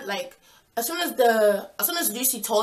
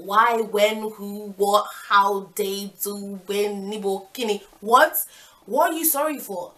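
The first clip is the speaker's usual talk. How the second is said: flustered babble; 3 dB louder, slower than usual. Retold or imitated. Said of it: "I started speaking in tongues".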